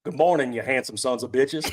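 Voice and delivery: put-on lightly done country accent. Host obliging a chat request, half-hearted country accent. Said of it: "someone's asking for a country accent".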